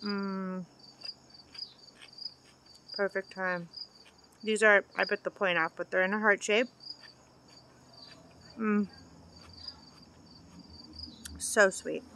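talking between bites; chewing while talking. Real, not acted. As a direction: mouth partly full. Seen 0: Bitten pepper in hand; food visible in mouth, chewing motions.

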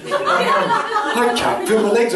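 high, drawn-out comic wail; mock panic. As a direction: wail it slowly in exaggerated panic. Reenacting panic under the table.

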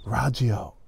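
radio as RAH-jee-oh, katakana style; Japanese-style radio. Retold or imitated. Teacher voices a student hearing the word in Japanese style. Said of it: "you think".

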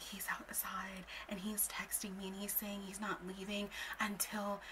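slow imitated whisper. Friend saying he won't leave, whispering. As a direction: whisper it, drawing the words out. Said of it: "she's, like, whispering".

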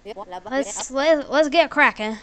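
put-on stumbling stab at an Australian accent; hammed-up, faltering Australian accent; attempted Australian accent. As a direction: trip into a mock Aussie line. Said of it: "not even trying to do the accent".

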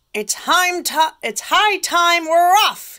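loud, high pirate call; pirate announcement. Acted. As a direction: announce it like a captain. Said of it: "he announced".

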